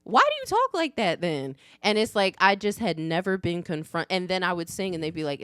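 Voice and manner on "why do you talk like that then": higher, louder mocking challenge; mimicked incredulous nagging; challenging schoolkids. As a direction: imitate a kid calling someone out. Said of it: "they're just like".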